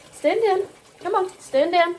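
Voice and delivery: coaxing command. Real, not acted. Commanding struggling dog.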